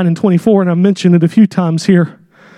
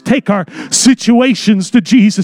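steady, sincere prayer over the congregation; heartfelt closing prayer; earnest pastoral prayer. Acted. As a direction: pray it out for the whole church.

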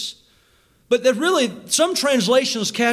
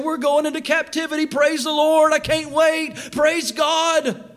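mock cheerful; 6 semitones higher than usual. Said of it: "Jeremiah's not sitting there saying".

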